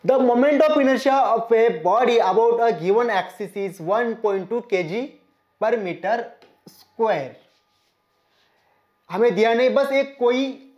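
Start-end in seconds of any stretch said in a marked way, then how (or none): 0.0-7.3 slow, even problem dictation; teacher dictating a textbook problem; reading the question aloud. Acted. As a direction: read the question out slowly for the class. Slowly reads out the problem.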